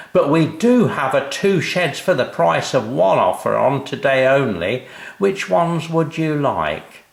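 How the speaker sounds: high, slow, chirpy sales patter; cheery salesman. A narrator's reading. Mister Shed greeting the family, high and cheery. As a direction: beam at the customers like a mascot.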